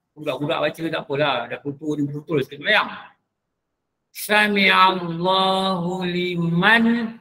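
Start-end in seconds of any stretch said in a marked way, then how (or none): 4.1-7.2 Sami Allahu liman very slow, nun clear; izhar recitation. Shown as a demonstration. Ustaz quizzing reciters on tajwid, slow chant.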